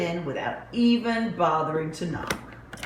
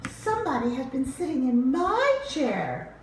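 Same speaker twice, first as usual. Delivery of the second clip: higher, prim affronted voice; higher mama bear complaint; 7 semitones higher than usual. Acted. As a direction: huff it like an offended mother bear. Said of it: "said Mama Bear".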